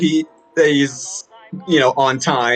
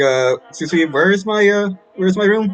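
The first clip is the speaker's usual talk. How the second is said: timid, hesitant, nervous, rising, pitched-up voice; 6 semitones higher than usual.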